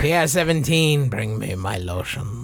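lightly put-on French accent. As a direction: play a French nobleman, French accent. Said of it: "the return of your French accent".

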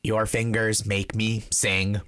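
slow, low robotic monotone. Pretend. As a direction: speak like a machine. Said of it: "I'm gonna do a robot voice".

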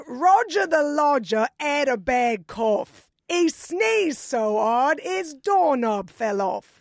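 slow, hammy Cockney rhyme; Cockney accent. Shown as a demonstration. Guest reciting a poem British friends taught, in a mild mock Cockney accent. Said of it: "U K, I apologize in advance".

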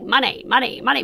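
"money" said like the cash word, repeated; money as in the song. Retold or imitated. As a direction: quote the song's plain "money". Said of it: "the song just says money".

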